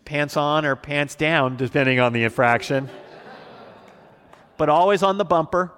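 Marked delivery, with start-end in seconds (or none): 4.6-5.7 higher, louder, laughing through the words; laughing punchline. Real, not acted. Pastor laughing to the congregation about his dad's spankings. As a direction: blurt it out cracking up.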